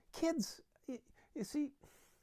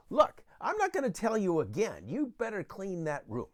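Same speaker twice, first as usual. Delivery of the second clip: put-on louder, firm ultimatum to a child; stern parent warning; 2 semitones higher, 6 dB louder than usual. Parent warning a child to clean the room, stern and loud. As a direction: lay down the law, loudly. Acted parent escalating threat.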